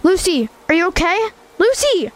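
rising panic, calling her name; frantic calling. Acted. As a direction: shout her name in alarm. Brother calling fallen sister.

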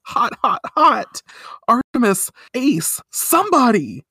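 high, loud, frantic calls for help; mock panicked cries. Sailor V overwhelmed by spicy food, calling for help in a high yelp. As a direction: yelp like your mouth is burning. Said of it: "Sailor V says".

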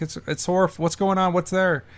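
high-pitched flustered questioning; mock horrified. Bullock asks what is on his body, in mock horror. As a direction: stammer in hammed-up alarm. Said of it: "Bullock's, like, horrified".

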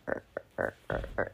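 breathy mock creak of the wind on the fence; creaking fence noise. Telling co-host about spooky wind noises, hushed creaking imitation. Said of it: "and it's going".

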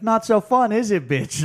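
loud, high sneering jab; mock drunk taunt. Leahy mocking Bubs locked in the trunk, loud sneer. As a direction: taunt him like a drunk bully. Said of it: "And then Leahy's like".

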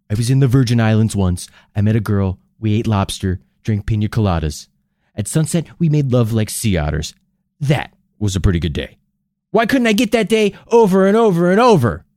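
lightly voiced deadpan film star; low, dry wistful reminiscing; Bill Murray impression. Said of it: "My favorite Bill Murray quote".

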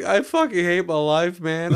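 hammed-up tearful complaint; mock drunken crying. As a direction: imitate a weepy drunk friend. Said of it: "he just started crying".

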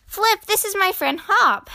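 put-on high childlike introduction; high-pitched proud little brother. A narrator's reading. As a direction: show off your new friend proudly. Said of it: "said Flop proudly".

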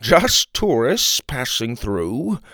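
slow, mildly nervous grandpa; a touch of nerves, words drawn out. Acted. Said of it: "Grandpa said nervously".

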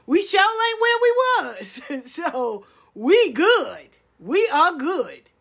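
loud, laughing cheer of relief; celebratory laughing outburst; laughing shout. Real, not acted.

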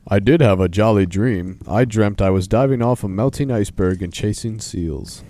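loud, hammed-up bear voice; Polar Bear. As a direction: announce it loudly as a storybook bear. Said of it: "Do you wanna do Polar Bear's voice?".

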